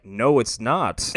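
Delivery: very slow, loud mock-brute refusal; ponderous monster rebuff. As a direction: drag out each word like an unimpressed giant. Goro's deadpan rebuff, acted.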